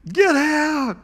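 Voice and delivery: shouted order. Retold or imitated. Mother ordering the son she no longer knows out, shouting.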